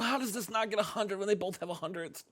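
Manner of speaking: high, fast, incredulous protest; dismayed disbelief. Real, not acted. Game host sees the match score, aghast.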